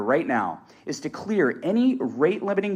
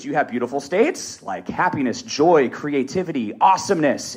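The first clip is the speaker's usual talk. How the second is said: energized list building in volume; beautiful-state tone. Shown as a demonstration. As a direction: lift each word toward an upbeat peak. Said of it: "Notice how I'm changing my tone".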